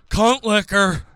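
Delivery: high, loud shouted call; mock yell. Rotund man yelling at bingo, mock yell. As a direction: yell it across the bingo hall. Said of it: "gentleman yells out".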